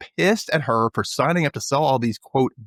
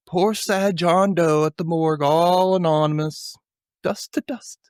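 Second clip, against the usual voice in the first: slow, drawn-out, higher mock mourning; mock lament; 5 semitones higher, slower than usual. Recapping Mason's lament for a John Doe at the morgue, mock lament. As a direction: stretch it out like a theatrical eulogy.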